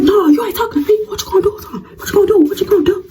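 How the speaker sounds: high giggling dare; laughing taunt. Retold or imitated. Daring the rival to act, laughing. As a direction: taunt her through laughter.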